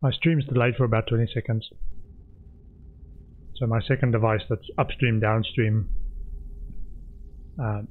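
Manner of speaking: talking while chewing; mouth full. Real, not acted. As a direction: speak through a mouthful of food. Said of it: "I'm talking with my mouth full".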